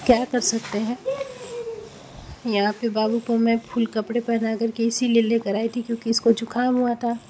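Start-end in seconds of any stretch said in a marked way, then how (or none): 0.1-1.0 voice breaking into tears. Real, not acted. Mother tearful leaving daughter behind.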